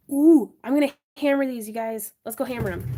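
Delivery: straining, grunty voice; effort grunt. Real, not acted. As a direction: push the words out with effort. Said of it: "I'm grunting and making weird loud noises".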